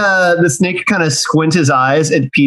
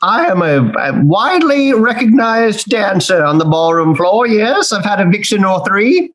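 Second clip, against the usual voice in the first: pompous boasting; 4 semitones higher than usual. Acted. Snake boasts in character.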